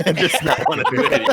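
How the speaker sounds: fast, laughing through it. Real, not acted. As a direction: giggle while rushing the line. Joking quote breaking into laughter.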